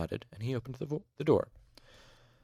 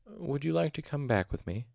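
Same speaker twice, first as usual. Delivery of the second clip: gentle; 6 semitones higher than usual. A narrator's reading. Master coaxing the huddled patient to leave, gently. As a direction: invite a fragile patient tenderly. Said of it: "Elodin asked gently".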